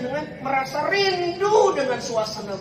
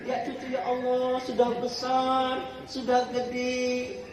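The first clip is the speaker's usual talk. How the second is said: doting grandparent; 3 semitones higher than usual. Acted. Grandparent marvels at a grown grandchild, lightly acted wonder.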